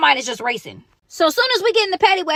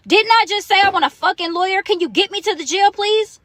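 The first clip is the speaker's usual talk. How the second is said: exasperated retold demand, raised a little; boiling with anger; 4 semitones higher than usual. Arrested woman demanding a lawyer from the detective, boiling. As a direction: demand it with mild heat. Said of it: "My blood is boiling at this point".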